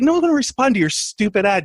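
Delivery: mock scoffing. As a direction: scoff at it, half-joking. Retelling mocking the roommate's idea.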